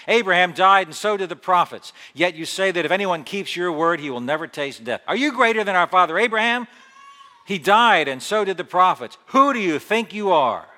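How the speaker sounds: the Jews rounding on Jesus, loud and indignant; indignant crowd. Acted. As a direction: hurl the words at him. Angry crowd challenges Jesus.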